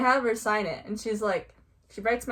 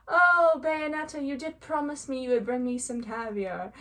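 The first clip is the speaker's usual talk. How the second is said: lightly voiced character; 4 semitones higher than usual. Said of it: "she was like".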